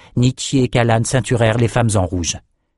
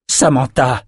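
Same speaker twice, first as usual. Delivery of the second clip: mild, slightly raised call; crying out; 3 semitones higher than usual. A narrator's reading. Richard calls to Samantha while backing away, a mild cry. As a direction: call out to her with restrained force. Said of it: "cria Richard en reculant".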